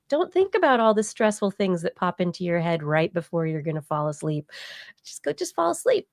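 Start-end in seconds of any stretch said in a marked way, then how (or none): 5.0-6.1 mock high advice voice. Mocking sleep advice.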